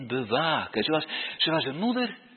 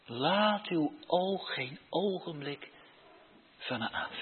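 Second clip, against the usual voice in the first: modelled prayer. Shown as a demonstration. (zacht, nederig gebed)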